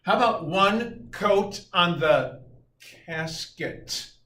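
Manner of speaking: high, loud mock eureka; excited pitch. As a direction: sell it like a brilliant new idea. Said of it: "So then we said".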